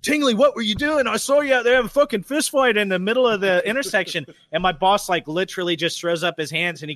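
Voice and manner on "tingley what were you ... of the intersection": high-pitched, riled-up coworker impression; steaming coworker. Coworker reporting the fist fight to Tingley, worked-up mock outburst. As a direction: burst out with it, imitating a coworker. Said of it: "He comes steaming back there".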